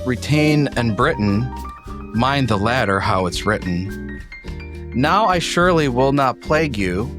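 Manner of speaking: reciting a poem aloud; poem reading. Acted. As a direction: read the verse with a lilt.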